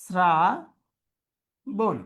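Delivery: "শ্রাবণ" drawn out as "sra... bon", very slow; dental s, syllable by syllable. Shown as a demonstration. Teacher writing it out, শ্রাবণ dictated slowly with dental s. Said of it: "দন্ত স উচ্চারণ হবে শ্রাবণ".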